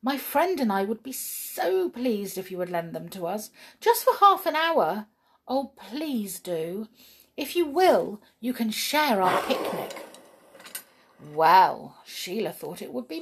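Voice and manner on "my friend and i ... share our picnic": huffy little helper elf. Acted. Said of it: "said the brownie".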